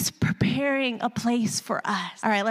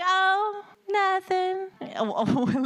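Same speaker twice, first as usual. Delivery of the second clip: mock breezy brush-off; 8 semitones higher, much slower than usual. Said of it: "You're like".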